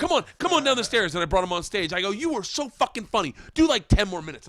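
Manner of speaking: high, loud sarcastic call; mock calling out. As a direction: call him back up with fake cheer. Mock hype calling guy down.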